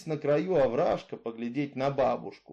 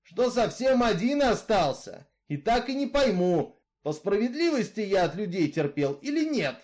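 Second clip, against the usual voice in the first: louder, steady outlaw's voice, arguing his case; Misfit, brooding killer; 6 semitones higher, 4 dB louder than usual. Acted. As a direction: tell her your grievance, hard and level. Misfit's speech continues. (голос Изгоя, громче и жёстче)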